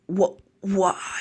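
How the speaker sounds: faint whispered why; weak whispered disbelief. Acted. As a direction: breathe the question out as he fades. Naruto betrayed, knocked out.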